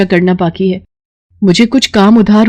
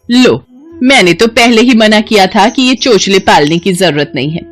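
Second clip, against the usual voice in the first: angry mother-in-law; 3 semitones higher than usual. Acted. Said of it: "उसकी सास गुस्सा करने लगती है".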